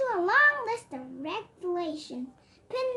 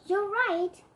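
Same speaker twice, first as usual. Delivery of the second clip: sad sigh; 2 semitones higher, 4 dB louder than usual. Acted. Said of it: "sighed Santa sadly".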